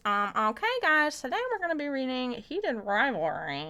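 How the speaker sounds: lightly put-on character voice; slightly put-on, swooping announcement; Barry. Streamer announcing today's reading to viewers, lightly put-on voice. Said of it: "Should I do the Barry voice?".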